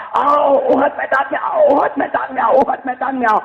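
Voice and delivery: rousing call to battle; announcement call. Retold or imitated. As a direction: call out like a town crier. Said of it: "اعلان ہوتا ہے".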